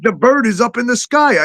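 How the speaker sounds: high, exasperated disbelief; mock outrage at a silly rule; retold outrage. Retelling the TikTok ban to a friend, high and exasperated. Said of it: "I'm like".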